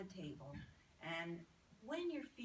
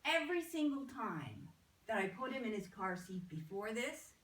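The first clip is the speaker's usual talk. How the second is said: excited retelling; 4 semitones higher, 12 dB louder than usual. Retold or imitated. Mother excitedly reports the change.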